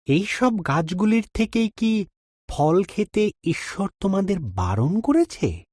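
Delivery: high, coaxing snake voice; sly serpent. A narrator's reading. Serpent tempting Eve in the garden, high and sly. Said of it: "সাপ জিজ্ঞাসা করল".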